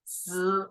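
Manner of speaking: z with the teeth closed; buzzing z. Shown as a demonstration. Teacher shows z with teeth together for the class. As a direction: bite the teeth and buzz z. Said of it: "bite your teeth".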